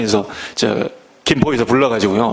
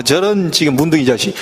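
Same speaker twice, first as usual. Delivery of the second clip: Gyeongsang curse. Retold or imitated. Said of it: "경상도는 뭐".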